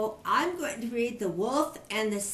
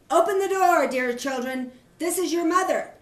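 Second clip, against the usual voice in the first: hoarse wolf; 5 semitones higher, 5 dB louder than usual. Acted. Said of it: "by his hoarse voice".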